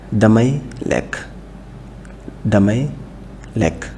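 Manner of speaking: Damay lekk despacio, subiendo en Damay; slow model pronunciation. Shown as a demonstration. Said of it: "faire la prononciation par mot".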